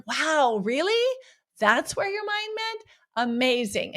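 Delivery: playful mock disbelief. Shown as a demonstration. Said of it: "playfully laugh and be like".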